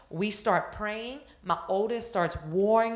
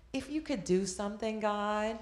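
doubtful prayer; 5 dB quieter than usual. Acted. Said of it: "how we go to God in our mind".

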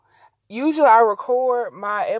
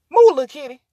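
louder call to move the kitty; louder coaxing; 3 semitones higher, 6 dB louder, faster than usual. Real, not acted. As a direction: push it out louder. Shooing the cat louder.

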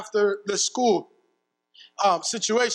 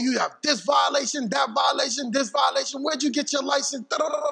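mock angry rant; 5 semitones higher than usual. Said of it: "started to cuss me out".

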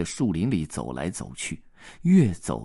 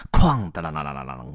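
fast, rattling crash noise; playful clatter sound effect; 3 semitones lower, 4 dB louder, faster than usual. Acted. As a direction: rattle out a falling ladle. Ladle crashes down.

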